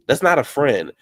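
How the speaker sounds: "not" hit hard and loud. Real, not acted. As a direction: slam the point home on "not".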